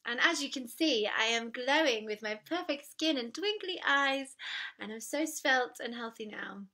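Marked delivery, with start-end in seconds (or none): 1.2-6.6 ironic brag that sinks into a whisper; mock boast. Joking to viewers about her perfect sober glow, ironic whisper. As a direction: sell the lie, then let it fade out. Sarcastic boast, then "Not true.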